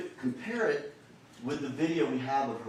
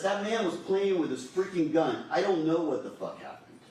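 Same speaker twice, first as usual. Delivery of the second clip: panicked quote; 4 semitones higher than usual. Retold or imitated. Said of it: "Her voice, her inflection, everything changes".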